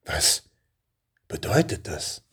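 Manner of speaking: baffled question. Acted. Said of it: "fragte er völlig verblüfft".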